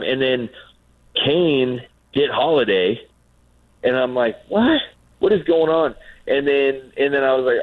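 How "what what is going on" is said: high-pitched mock disbelief; retold shock. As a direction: play the baffled fan, pitch jumping up. Retold confusion at baseball game.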